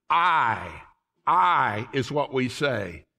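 "I" drawn out and leaned on, slow; stress on I. Shown as a demonstration. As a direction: dwell on "I" to show the mistake. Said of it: "We emphasize the wrong word".

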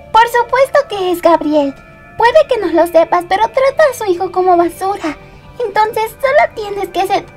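worked-up, scornful rant; indignant outburst. Acted. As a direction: lay into him, voice rising. Indignant accusation about Gabriel's parenting.

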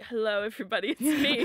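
mock posh English greeting; teasing posh English imitation; posh Normum impression. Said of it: "I love how posh".

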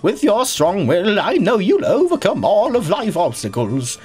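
slow, formal lightly voiced gym leader. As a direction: read it like a solemn gym leader. Reads gym leader's speech.

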